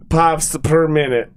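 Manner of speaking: gruff Russian mentor voice; Russian accent. Pretend. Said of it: "you literally sound like John Malkovich".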